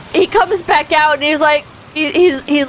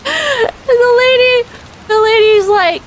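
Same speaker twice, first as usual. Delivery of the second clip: laughing while talking; 9 semitones higher than usual. Real, not acted. Cracking up retelling the mishap.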